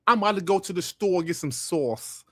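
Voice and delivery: put-on New York talk; New York accent, drawing out the last words. Streamer mimicking New Yorkers going to the store, in a New York accent. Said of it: "as the New Yorkers would say".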